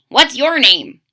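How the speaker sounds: a friendly bird asking; Pete's voice. Acted. Pete asks the crocodile his name, lightly voiced bird.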